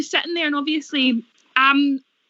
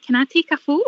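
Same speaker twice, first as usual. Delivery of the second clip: giddy retold request; 2 semitones higher than usual. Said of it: "I was like".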